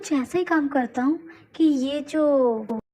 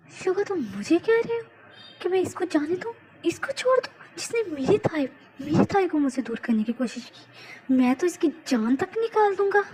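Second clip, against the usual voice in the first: angry outburst; 4 semitones higher than usual. Acted. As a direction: rage at letting him go. Jungkook refuses, enraged at captive.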